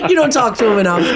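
teasing through laughter; laughing tease. Real, not acted. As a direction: laugh while gently ribbing a co-host. Teasing co-host while laughing.

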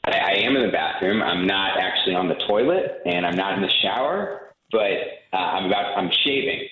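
hollow echo from a tiled bathroom; talking from an echoey bathroom. Real, not acted. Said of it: "You sound like you're in the bathroom".

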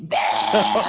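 high mock retch; imitated spewing. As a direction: act out throwing up mid-wave. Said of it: "And I was spewing".

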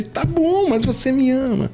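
comic high-pitched Jesus asking again; high squeaky voice of Jesus. Retold or imitated. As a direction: go way up, playful and insistent.

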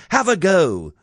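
high, encouraging call; mild shout. A narrator's reading. Snow White urging the dwarf on, high light shout. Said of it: "she shouted".

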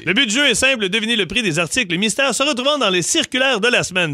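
upbeat host announcing the game; game show host. Acted.

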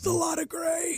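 very high, soft squeal; small high-pitched cry of mock alarm; squeaky dismay. Host repeating his gray-beard discovery, high squeaky dismay.

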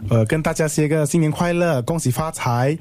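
cheerful new year wishes. Real, not acted. New year greeting to viewers.

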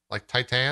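"Titan" with a full "an" at the end; stress on second syllable. Shown as a demonstration. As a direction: say "Titan" as tie-TAN. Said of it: "you're putting the stress on the an".

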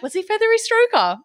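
put-on high, teasing girlfriend question; playful high mock query; mock gossip. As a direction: ask it like giggling friends. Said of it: "they're like".

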